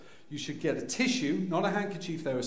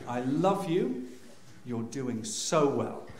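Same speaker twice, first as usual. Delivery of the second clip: slow, measured encouragement; mock-earnest, drawn-out praise; slow reassurance; 3 semitones lower, slower than usual. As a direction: soothe a partner through labour. Soothing his wife in labour.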